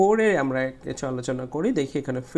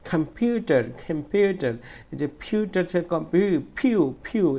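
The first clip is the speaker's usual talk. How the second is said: "কম্পিউটার" with পিউ pushed out forcefully; stress on পিউ; 2 semitones higher than usual. Shown as a demonstration. Teacher isolating the stressed bit, forceful পিউ. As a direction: hit the middle পিউ of "কম্পিউটার". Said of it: "এইটুকু জোরে বলতে হচ্ছে".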